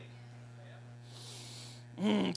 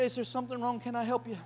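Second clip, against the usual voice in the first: gentle concern; 2 semitones higher than usual. Retold or imitated. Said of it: "just say".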